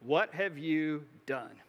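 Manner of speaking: slow, grave accusing question; stern prophet's question. Retold or imitated. Samuel confronting Saul after the sacrifice, slow and stern. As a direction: confront him slowly, demanding an answer. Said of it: "Samuel says".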